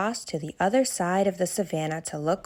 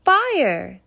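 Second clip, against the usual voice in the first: loud, higher alarm cry; shouted warning; 8 semitones higher, 7 dB louder than usual. Acted. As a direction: animals yell about the fire. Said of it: "they shouted".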